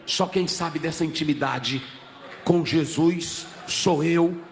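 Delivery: low, intimate preacher's narration; low, solemn retelling, slowing at the close; hushed sermon storytelling. Real, not acted. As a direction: drop the voice right down for the story. Preacher tells Paul story low.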